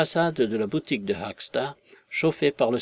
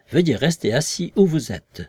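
louder, firmer voice for the invisible man; invisible man's warning; 4 semitones higher, 5 dB louder than usual. Acted. Invisible man warns his visitors to stay seated, firm and louder. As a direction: warn them to stay seated, a touch menacing.

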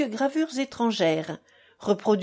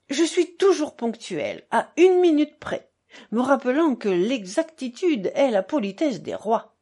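higher, louder exclaiming, settling at the end; a hint of an effusive father; lightly voiced buffoon father; 3 semitones higher, 3 dB louder than usual. Narrator plays the buffoon father.

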